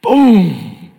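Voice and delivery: a loud, high mock boom; booming sound. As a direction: make the thunder of heaven with your voice. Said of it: "an audible voice from heaven".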